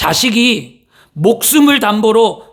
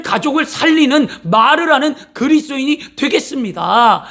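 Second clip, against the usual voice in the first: raised, earnest prayer voice; 5 semitones higher than usual. Acted. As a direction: pray it with conviction. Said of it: "하나님 앞에". (간절한 기도)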